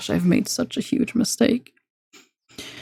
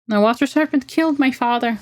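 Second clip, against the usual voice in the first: cold declaration; 6 semitones higher than usual. Acted. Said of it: "she declares coldly".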